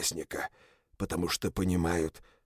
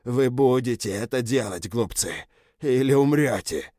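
threatening shout; 3 semitones higher, 4 dB louder than usual. Acted. General threatens everyone.

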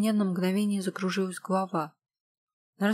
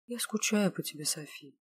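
regretful; 4 dB quieter than usual. Acted. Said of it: "произнесла она с сожалением".

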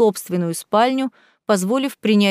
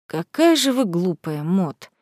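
weary sigh; 2 semitones lower, slower than usual. A narrator's reading. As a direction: sigh it out, pitying her stupidity. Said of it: "вздохнул дворецкий".

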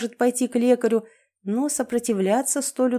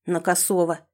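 suddenly hoarse with nerves; 2 semitones lower than usual. Acted. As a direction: croak it out hoarsely. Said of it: "почему-то вдруг охрипнув".

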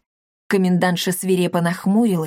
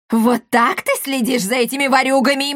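yelling; 5 semitones higher than usual. Acted. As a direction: scream at the useless guard. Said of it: "завопила Коптильда". (вопль, громко)

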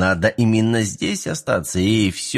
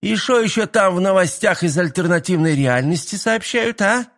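grumpy; 10 semitones higher than usual. A narrator's reading. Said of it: "с лёгким оттенком сварливости осведомилась".

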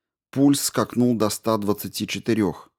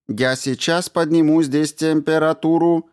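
polite robot; 8 semitones higher, 3 dB louder than usual. A narrator's reading. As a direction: greet him like a courteous machine. Robot Ram speaks.

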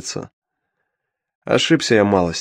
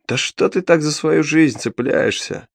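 higher, slow, vexed question; annoyed; 6 semitones higher, slower than usual. Acted. Imp mocks the hero for clinging to life, annoyed. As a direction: needle him, fed up. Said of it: "с досадой спросил гад рогатый".

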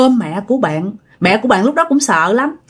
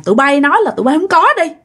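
raised, fierce interrogation; possessed accusing; 4 semitones higher than usual. Retold or imitated. Possessed woman demanding the killers swear, raised fierce accusation. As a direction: press them hard, voice raised. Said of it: "bà nói rằng á là".

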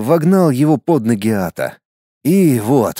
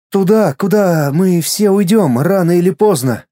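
put-on boy's inner voice; 5 semitones higher than usual. Мальчик прощается.

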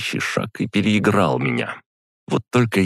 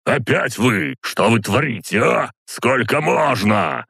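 put-on high, outraged old man's squeal; squealing protest; 8 semitones higher than usual. A narrator's reading. Old count pinned to the bed, high squealing protest. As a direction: screech the complaint, dragging out the last question. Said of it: "заверещал старый граф".

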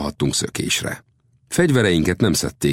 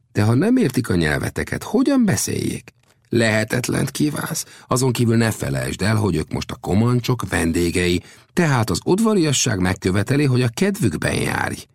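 high-pitched, animated argument; Old Death arguing; 7 semitones higher than usual. Acted. Old Death argues courtesy to the chief, animated and high. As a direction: argue it with rising, lively pitch.

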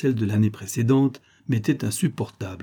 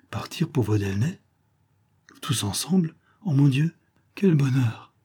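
sighing; 3 semitones higher than usual. A narrator's reading. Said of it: "soupira ma cousine".

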